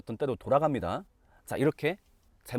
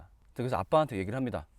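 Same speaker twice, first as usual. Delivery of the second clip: ordinary delivery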